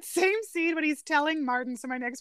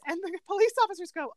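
ordinary talk, nothing marked

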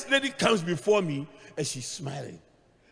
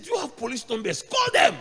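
panicked shout; 5 semitones higher than usual. Retold or imitated. Wife demanding police call.

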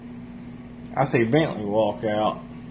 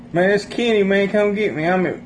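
high, insistent imitation of a friend; retold pleading caller; 8 semitones higher than usual. Friend phoning to be picked up, high mimicked plea. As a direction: mimic his plea, pitched well up.

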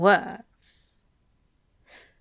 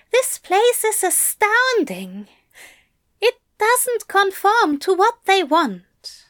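raised, higher gentle angel; higher-pitched voice for the anxious angel; Aziraphale voice; 12 semitones higher, 4 dB louder than usual. A narrator's reading. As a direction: lift the voice for the fussy angel. Aziraphale continues.

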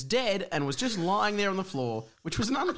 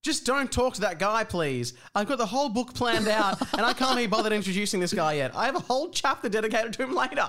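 exasperated, higher-pitched plea; pleading narrator; 5 semitones higher than usual. Acted. Narrator begging characters to leave the new guy alone, exasperated. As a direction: beg them to stop, put-upon.

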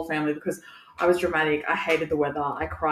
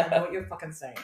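said through laughter; laughing exasperation; 3 dB quieter than usual. Retold or imitated. Complaining she understands Fijian but can't speak it, laughing. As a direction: laugh it off in frustration.

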